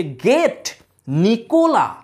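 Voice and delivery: lightly acted call at a gate; mild mock shout. Sergius calling the servant to open the gate, mild shout. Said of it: "সার্জিয়াস এসে চিৎকার করছে".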